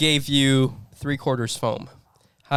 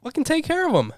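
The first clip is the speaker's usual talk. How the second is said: high, snarling chef order; angry chef; 14 semitones higher than usual. Shown as a demonstration. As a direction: bark it like a furious boss. Demonstrating chef outrage.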